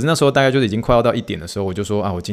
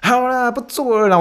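giving in; 14 semitones higher than usual. Retold or imitated. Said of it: "我想说".

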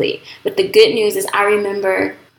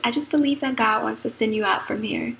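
lightly imitated Australian accent, slightly softer; a hint of a pastor's Aussie accent; 3 semitones higher, 5 dB quieter than usual. Pastor telling her she'll be sent out, light Aussie accent. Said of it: "in her Aussie accent".

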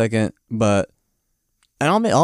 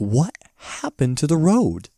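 slow, higher, drawn-out question; mock dismayed disbelief; 4 semitones higher, slower than usual. Dorothy finding the broken road, mock stunned. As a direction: stretch it out in overacted dismay.

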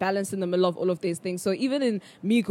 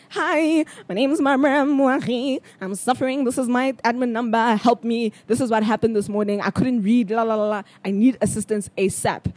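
mock plea for help; 3 semitones higher than usual. Emailing psychological services after her episode, mock desperate.

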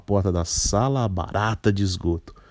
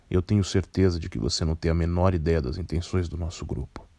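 put-on a lightly lowered, composed older man; low, measured voice; 3 semitones lower, 3 dB quieter than usual. Pale man speaks.

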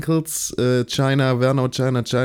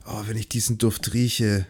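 sultry perfume ad; 4 semitones lower, 5 dB quieter than usual. Retold or imitated. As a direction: coo it like a perfume commercial. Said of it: "Und das ist so übel cringe".

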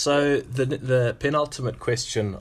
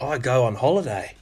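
put-on Aussie accent; 3 semitones higher, 4 dB louder than usual. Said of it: "That's a lovely Aussie accent there".

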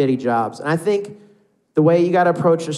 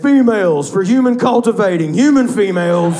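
loud, higher alien announcement; mock alien voice; 7 semitones higher, 7 dB louder than usual. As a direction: proclaim it like an alien studying humans. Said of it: "like they're aliens".

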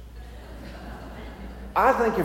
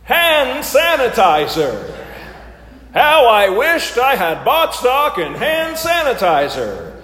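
game show host; 3 semitones higher, 5 dB louder than usual. Pretend. Hosts the sermon game show.

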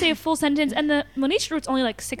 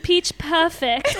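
slow attempt at Israeli-accented "Pitch Perfect"; 3 semitones higher, much slower than usual. Imitating friend telling cousin her movie, Israeli accent. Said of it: "Say Pitch Perfect in an Israeli way".

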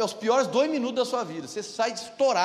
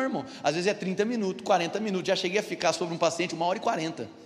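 ordinary delivery

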